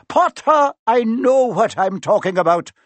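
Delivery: a stern professor snapping his name; curtly. A narrator's reading. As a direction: cut the boy off short. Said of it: "she said shortly".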